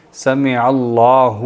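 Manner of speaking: سمیع اللہ drawn out very slowly, each letter clear; correct pronunciation. Shown as a demonstration. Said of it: "ایک تو موٹی ہا ہے اور ایک پیش ہے". (آہستہ آہستہ صحیح تلفظ کے ساتھ)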